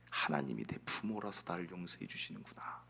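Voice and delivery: very low, soft murmur to oneself; hushed realisation. Acted. Preacher voices David finding God is his parent, hushed. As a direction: sink into a quiet, dawning thought.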